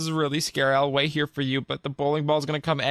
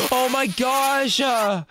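startled gasp; 9 semitones higher, much slower than usual. Acted. Bowling ball approaching.

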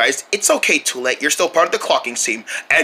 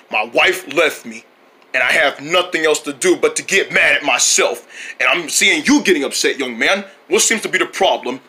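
lightly voiced sad movie husband; 3 semitones lower than usual.

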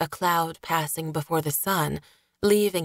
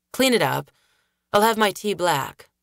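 curt order; 4 dB louder than usual. Acted. Gregor orders servant, irritated.

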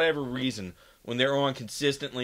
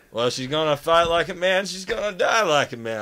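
lightly acted uncle, higher pitch; imitated defiant uncle; 5 semitones higher, 4 dB louder than usual. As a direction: justify it emphatically, as if retelling an uncle. Uncle justifies himself in retold story.

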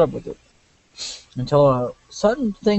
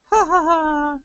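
laughing; 12 semitones higher, much slower than usual. Real, not acted. Laughing at the scene.

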